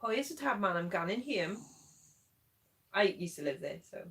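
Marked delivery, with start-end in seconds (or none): 0.0-1.6 Welsh-tinged Geordie; attempted Geordie accent. Welsh co-host attempts Geordie slang, wobbly Geordie accent. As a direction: have a shaky go at Geordie dialect. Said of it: "trying to do a Geordie accent".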